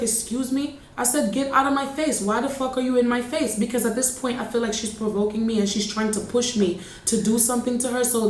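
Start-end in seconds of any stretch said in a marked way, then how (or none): 0.0-0.8 affronted retort. Retold or imitated. Imitating the landlady after being told off, affronted. Retold landlady reacting to insult. 1.3-3.6 heated, higher pitch without shouting; retold angry comeback. Tenant telling off the provoking landlady, retold anger.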